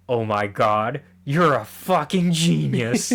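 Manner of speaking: slow, drawn-out amazement; mock awe. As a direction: imitate a dupe bowled over by brilliance. Retelling the gullible warden's amazement.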